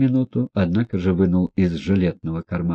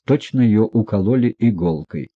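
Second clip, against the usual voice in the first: ordinary delivery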